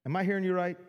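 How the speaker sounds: wide-eyed, rising disbelief; amazed disbelief. Retold or imitated. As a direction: play the stunned listener who can't believe it. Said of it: "And they're like".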